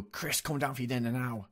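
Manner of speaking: imitating mum calling up for dinner; retold mum's shout. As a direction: call up to a child, without real volume. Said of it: "she would shout up at me".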